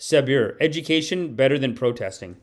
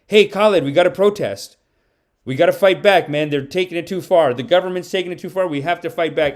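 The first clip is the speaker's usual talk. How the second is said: raised, insistent recruiting plea; fellow protester urging; 3 semitones higher, 4 dB louder than usual. Acted. Protester recruiting Khaled the first time, acted urgent plea. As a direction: urge a reluctant friend to join, a bit louder at first. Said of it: "the first time you say".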